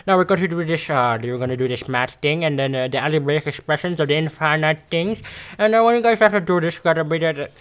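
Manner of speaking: mock garbled teacher talk; hammed-up confusing math teacher; imitating the teacher. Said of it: "she talked to you like this".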